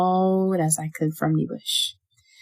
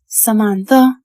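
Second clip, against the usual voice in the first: mother calling; 4 semitones higher, 8 dB louder than usual. A narrator's reading. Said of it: "I hear Mama again".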